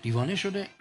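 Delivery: softly, as if afraid to be overheard; hushed mock gossip among the crowd; secret murmur. (زمزمهٔ یواشکی و ترسیده)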